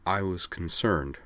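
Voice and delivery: simply. A narrator's reading. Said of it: "said Sky simply".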